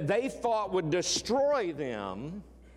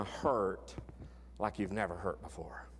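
whisper; 8 semitones lower, 7 dB quieter than usual. Shown as a demonstration. Preacher whispers the warning to his congregation. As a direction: drop to a hushed whisper on the repeat.

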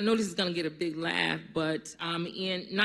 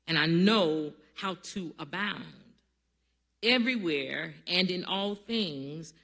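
scripture reading. Acted.

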